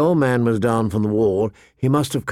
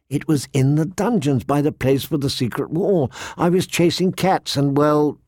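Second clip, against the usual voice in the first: put-on higher-pitched girl blurting her story; earnest child explaining herself; a child's hurried account that falters; young girl Arya, insistent; 4 semitones higher than usual.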